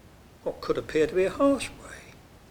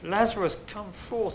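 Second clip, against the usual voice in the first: commanding call; 6 semitones higher than usual. Acted. Jesus calls Lazarus from grave.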